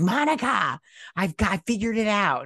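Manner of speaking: high, eager mock call; imitated excited calling. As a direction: call out the name like you just ran up with news. Character runs up calling to Monica.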